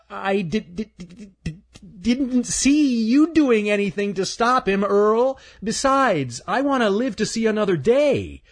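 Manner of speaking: high, stammering squirrel voice; a timid squirrel tripping on words; nervous stuttering squirrel. Acted. Stanley's voice.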